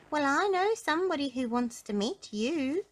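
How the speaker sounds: high storybook goblin. A narrator's reading. Goblin tempting Mister Uppity along, in a high voice. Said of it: "said the goblin".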